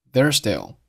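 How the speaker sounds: "there's still" run together with one s; dropped z. Shown as a demonstration. Teacher showing learners linked sounds, "there's still" with z dropped. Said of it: "there's结尾的z并没有发音".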